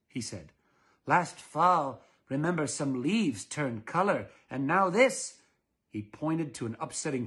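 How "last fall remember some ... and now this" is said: mild mock alarm. Mister Dullard complaining.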